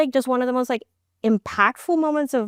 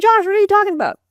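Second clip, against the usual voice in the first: high, louder disbelieving retort; incredulous reply; 13 semitones higher, 5 dB louder, faster than usual. Retold or imitated. Wife to husband, high incredulous retort. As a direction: pitch it up in disbelief at him.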